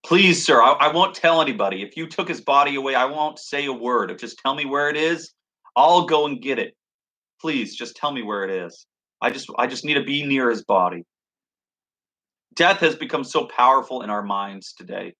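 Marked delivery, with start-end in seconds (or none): 0.0-11.0 a hint of a desperate plea, voice lifted; lightly voiced pleading mourner. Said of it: "she begins to plead with this man".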